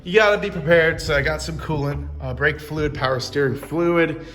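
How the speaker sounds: garage reverb. Real, not acted. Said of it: "sorry for the, uh, reverb in here".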